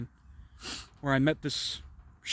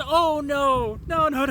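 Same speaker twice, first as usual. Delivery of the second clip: smug demon; 11 semitones higher, 6 dB louder, much slower than usual. Retold or imitated. Demon refusing, voiced in story.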